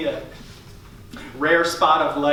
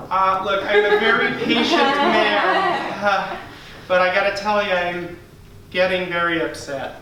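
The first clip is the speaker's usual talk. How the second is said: mock upset customer. Customer tells staff he's upset, mild mock anger. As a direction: hold it in but start to boil.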